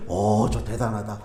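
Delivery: low, soft impressed murmur; quietly impressed aside; hushed awe. Retold or imitated. Awed inner reaction to prophesying people.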